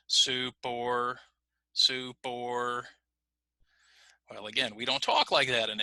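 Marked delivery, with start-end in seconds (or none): 0.1-2.8 "Soup or" with both words held the same length; flat, evenly spaced words; even unlinked timing. Shown as a demonstration. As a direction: keep each word equal, no reduction. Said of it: "I'm just going to keep the same length of rope".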